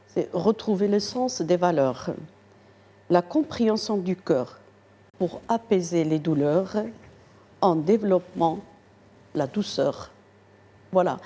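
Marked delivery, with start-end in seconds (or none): 0.1-10.1 measured poetry recital with pauses between lines; reciting verse. Acted. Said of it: "je peux vous en parler en quatre vers". (récitation de vers, posée)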